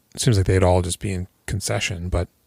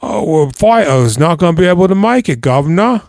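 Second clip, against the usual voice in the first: higher, louder pleading excuse; a hint of a scared gangster calling him governor; nervous grovel; 7 semitones higher, 5 dB louder than usual. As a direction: grovel to the boss.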